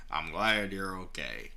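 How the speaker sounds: slow, lightly drawled Southern line; amateur Southern accent, unhurried; country boy accent. Acted. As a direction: say it in a gentle attempt at a country drawl. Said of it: "I'm gonna keep doing it".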